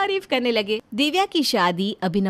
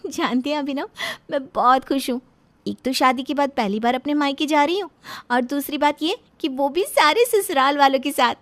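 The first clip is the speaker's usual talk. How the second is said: put-on higher, bubbly young wife; excited new bride; 5 semitones higher, 3 dB louder than usual. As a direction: gush about her mother's cooking. Divya happy to visit parents. (उत्साहित नई दुल्हन की चहकती आवाज़)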